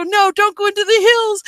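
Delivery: high-pitched mock protest; retold yelling. Passenger begging driver to avoid hills, mock yelling. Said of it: "we're yelling at each other in the car".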